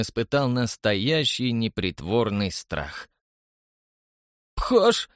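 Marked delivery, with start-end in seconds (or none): 4.5-5.1 muttered from the corner of the mouth; cigarette in mouth. A narrator's reading. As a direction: mumble it past a cigarette. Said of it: "уголком рта пробормотал Лоус". (сквозь сигарету в уголке рта)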